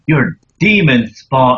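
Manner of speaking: slow, hammed-up horror villain; horror movie line. Co-host imitates typical horror movie line, slow and hammy. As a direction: draw it out like a cheap horror film. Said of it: "like, the typical horror movie".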